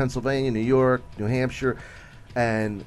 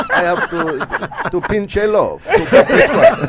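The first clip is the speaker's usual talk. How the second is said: high, strained goofy guy voice; goofy character voice; 7 semitones higher, 8 dB louder, slower than usual. Retold or imitated. Comic doing her goofy character bit for the crowd, high and strained. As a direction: play the silly stand-up character at full pitch. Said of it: "it's this character".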